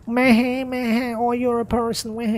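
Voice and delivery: high, bored dismissive sneer; dismissive mockery. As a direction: brush him off as if he barely matters. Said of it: "everybody's like".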